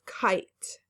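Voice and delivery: kite with a long I. Shown as a demonstration. Teacher modeling the long I in kite, slowly. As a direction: give kite a full long I. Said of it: "which is another long I sound".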